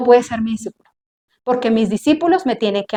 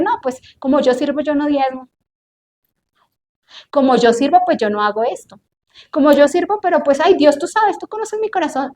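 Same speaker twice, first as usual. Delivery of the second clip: mocking excuse-maker. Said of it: "hay servidores chistosos".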